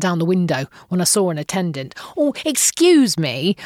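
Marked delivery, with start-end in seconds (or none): 2.2-3.6 very polite. Retold or imitated. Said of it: "being very polite".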